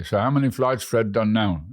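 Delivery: lightly imitated New Jersey Brooklynite; Brooklyn accent. Retelling an airline passenger's question to British Airways staff, light Brooklyn accent. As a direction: put on a touch of Brooklyn. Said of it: "in his Brooklyn accent".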